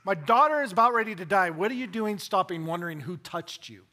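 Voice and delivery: high, loud frantic cry for his dying daughter; panicked father pleading; desperate father. Retold or imitated. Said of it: "Jairus does not want him to stop".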